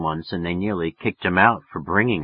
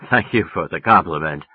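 smooth, a touch lower, playing it cool; suave; 4 semitones lower than usual. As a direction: answer like a smooth operator. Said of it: "suave as hell".

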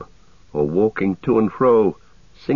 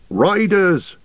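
high, urgent cry of alarm; 10 semitones higher than usual. A narrator's reading. Aragorn springs up at seeing horsemen, crying out. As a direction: call out the sighting, much higher. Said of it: "cried Aragorn, springing to his feet".

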